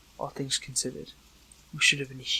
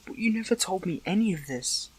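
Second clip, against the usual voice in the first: higher, louder, upset protest; hurt protest; 4 semitones higher, 5 dB louder than usual. Acted. Learning a friend hid their death, hurt protest. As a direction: let the hurt burst out, pitch up.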